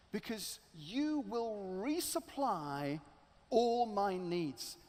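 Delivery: slow, sincere promise to God; solemn vow. Acted. Man promising God to give generously, slow and sincere. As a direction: vow it slowly and earnestly. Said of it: "Bill says out loud to God".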